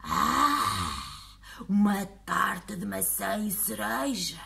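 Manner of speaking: very slow monster voice; friendly monster. Acted. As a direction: drawl it like a tired giant. Monster considers.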